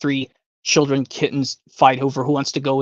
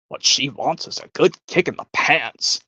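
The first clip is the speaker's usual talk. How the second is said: grumbling guest. Retold or imitated. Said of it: "from Willy Wonka".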